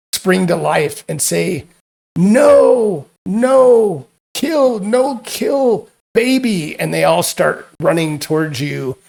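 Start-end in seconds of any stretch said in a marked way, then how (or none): 2.1-6.8 high, loud frantic monster shrieks; shrieking creatures. Acted. Creatures rushing the party, shrieking high and loud. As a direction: screech like a swarm protecting its young.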